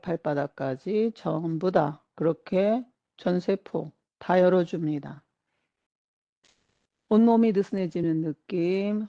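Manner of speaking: measured meditation-guide voice with long pauses; guided body scan. Acted. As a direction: ease them through each body part, phrase by phrase. Leads a whole-body relaxation. (천천히 짚어 가는 이완 명상 안내)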